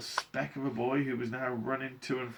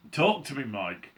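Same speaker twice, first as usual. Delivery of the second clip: high, loud plea; urgent motherly cry; 5 semitones higher, 5 dB louder than usual. A narrator's reading. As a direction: plead with a cry, falling off on the name. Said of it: "cried Missus T V".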